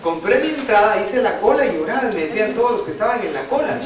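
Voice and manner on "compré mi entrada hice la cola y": excited retelling. Acted. Relato animado y fuerte.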